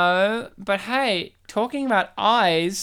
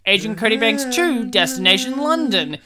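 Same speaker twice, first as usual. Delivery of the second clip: tribute announcer; 4 dB louder than usual. Acted. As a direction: announce names like a tribute reel. In memoriam style tribute reading.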